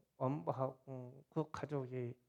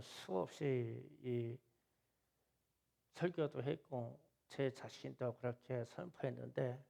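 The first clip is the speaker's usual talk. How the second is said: retold prayer; 3 semitones lower than usual. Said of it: "새벽에는 그랬어요".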